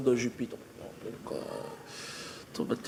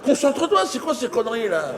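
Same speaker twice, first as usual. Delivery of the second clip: exasperated alien; 9 semitones higher than usual. Acted. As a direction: snap him back to attention. Alien scolds the friend.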